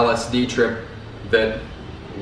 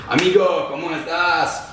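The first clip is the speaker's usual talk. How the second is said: higher, forced-cheery amigo greeting; inauthentic Spanish greeting; 5 semitones higher than usual. Shown as a demonstration. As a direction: try to sound Colombian and fall short. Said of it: "I can't even say it with, like, a authentic voice".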